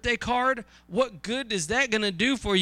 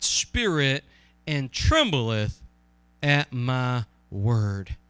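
slow, deliberate scripture reading; slower than usual. Acted. Preacher reads Isaiah to the congregation, slow scripture reading. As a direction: read the verse out slowly and weightily.

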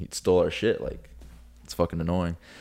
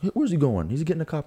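imitating the thief; 10 semitones higher than usual. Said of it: "the guy was like".

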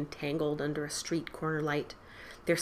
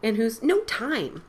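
excited shout; 5 semitones higher, 7 dB louder than usual. Acted. Hurried boys shouting.

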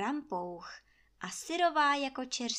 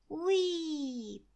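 wind whoosh; 7 semitones higher than usual. A narrator's reading.

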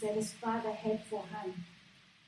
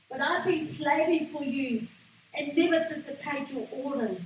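eldest son's aggrieved cry, a bit higher and louder; resentful son's protest; 3 semitones higher, 5 dB louder than usual. Acted. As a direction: cry out the grievance like a son who feels used. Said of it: "he cried to the father saying".

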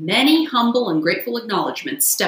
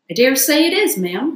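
raised, louder polite reply; polite Toad; 6 semitones higher, 6 dB louder than usual. A narrator's reading. Toad politely answering the barge woman, raised and louder. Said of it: "responded Toad politely".

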